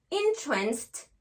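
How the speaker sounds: entranced begun with "in", said slowly; slow, clear "in" to start entranced; "in" first syllable. Shown as a demonstration. Teacher reading an example of the verb, "in" in entranced. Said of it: "on va faire le son in".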